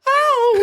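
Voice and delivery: high, loud hammed-up yelp; mock pained yelp. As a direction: yelp like you just got punched. Manager punched in face.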